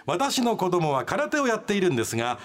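measured, dramatised radio read; letter reading. Acted. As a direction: narrate a listener's grievance with storyteller's timing. Reads listener's letter aloud.

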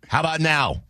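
a dry, pointed "How about now?"; snarky jab. Retold or imitated. Host needling his producer for a missed cue, snarky. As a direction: toss the line off with a curt edge. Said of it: "it was stupid aggressive".

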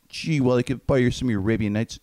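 put-on boyish sitcom kid voice; Beaver voice. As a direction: play the wide-eyed little brother. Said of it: "Beaver's the main one though".

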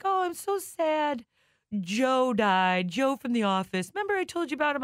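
lightly voiced mother sighing over a coworker; imitating mom.

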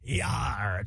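low gruff pirate "Yar" shout; pirate growl. Acted. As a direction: bark it like a pirate. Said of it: "Talk Like a Pirate Day".

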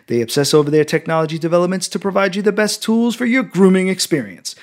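punchy podcast ad read with playful asides; sponsor ad read. Acted. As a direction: sell it like a host's sponsor spot.

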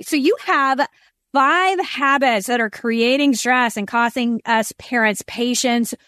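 normal talking voice

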